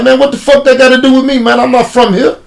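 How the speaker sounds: retold angry retort. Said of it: "So I'm like".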